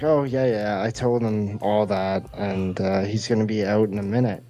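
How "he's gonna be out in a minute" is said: normal talking voice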